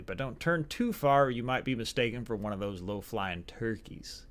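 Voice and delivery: hammed-up American Southern accent; awful Southern accent. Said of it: "awful Southern accent".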